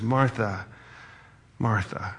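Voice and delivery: soft, falling, lingering on each Martha; tender. Shown as a demonstration. Preacher demoing Jesus tenderly calling Martha, soft and gentle. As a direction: say her name twice with compassion. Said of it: "a different tone than when he says".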